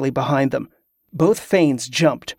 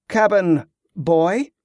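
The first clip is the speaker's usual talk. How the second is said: put-on "Cabin boy?" drawn out slowly with a rising question; slow, pointed disbelief on "Cabin", lifting at the end; incredulous echo; 4 semitones higher, slower than usual. Echoes the phrase incredulously.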